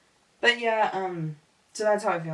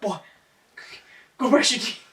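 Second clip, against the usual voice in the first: mock scolding; 3 semitones higher, 6 dB louder than usual. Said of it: "shake you awake and be like".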